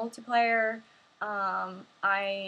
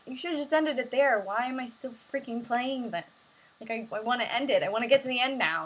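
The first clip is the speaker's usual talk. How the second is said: exasperated rant; 2 semitones higher, 3 dB louder than usual. Retold or imitated. Fed-up player ranting at the game, exasperated. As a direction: whine at the game that won't end.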